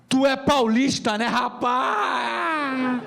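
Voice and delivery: imitating a Rio cabbie's carioca drawl; mock carioca cabbie asking; carioca taxi driver. Rio taxi driver voiced in story.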